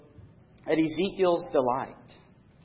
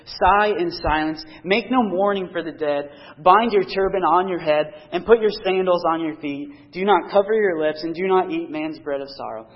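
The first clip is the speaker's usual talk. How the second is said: louder, measured reading of God's commands; scripture reading; 4 dB louder than usual. Acted. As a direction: read each command out to the congregation. Preacher reads God's instructions.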